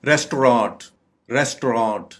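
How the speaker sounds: "रेस्टोरेंट" said RES-to-raat; correct pronunciation. Shown as a demonstration. Teacher modelling the correct word, "रेस्टोरेंट" as RES-to-raat. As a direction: end "रेस्टोरेंट" on a long open raat. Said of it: "इसकी correct pronunciation है".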